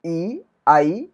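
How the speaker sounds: ई, आई stretched very slowly; slow vowel demo; drawn out vowels. Shown as a demonstration. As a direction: hold each vowel ई and आई long. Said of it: "आई का उच्चारण".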